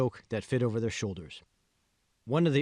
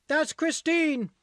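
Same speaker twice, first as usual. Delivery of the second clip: much higher, slow, louder yelled correction; yelling; 4 dB louder, much slower than usual. A narrator's reading. Teen girl correcting her name, annoyed yell. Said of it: "yelled the teenager".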